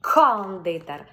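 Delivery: кондитер slow, the К pressed hard; повільно, натискаючи на К. Shown as a demonstration. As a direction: press the К so it isn't a Т. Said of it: "Іноді треба натиснути".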